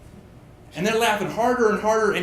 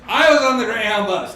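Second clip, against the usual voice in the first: louder, higher triumphant restart; proud storyteller; 4 semitones higher, 5 dB louder than usual. Shown as a demonstration. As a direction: launch the story with pride. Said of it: "repeated line".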